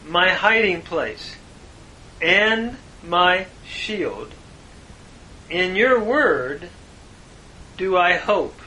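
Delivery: slow, emphatic verse translation; scripture reading. Real, not acted. Teacher renders the psalm's line for students, slow, deliberate reading. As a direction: set each phrase apart with weight.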